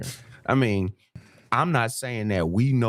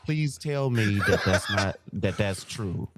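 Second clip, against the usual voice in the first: mock panic; 3 semitones higher, faster than usual. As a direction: fake panicked, laughing through it. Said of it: "That shit was almost convincing".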